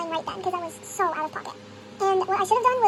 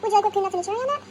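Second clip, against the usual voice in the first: customer service script; 3 dB louder, faster than usual. Retold or imitated. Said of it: "we're like".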